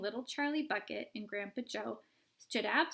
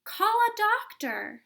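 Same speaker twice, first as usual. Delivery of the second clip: high, loud, slow panicked shout; 12 semitones higher, 10 dB louder, slower than usual. A narrator's reading. Father shouting for a doctor in panic. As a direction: bellow for help. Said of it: "shouted Mister Beauregard".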